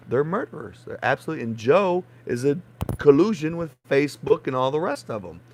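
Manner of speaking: loud, angry accusations; furious rant. Real, not acted. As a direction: shout the charges out in anger. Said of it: "I get furious".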